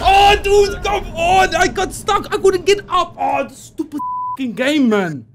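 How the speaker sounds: high, loud exasperated yelling; real frustration, shouted high and loud; frustrated outburst. Real, not acted. Gamer stuck on terrain shouts at his friends, high and loud.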